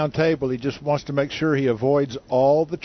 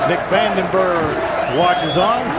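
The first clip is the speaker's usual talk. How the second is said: excited commentary; 4 semitones higher than usual. Real, not acted. Commentator calls the winning shot.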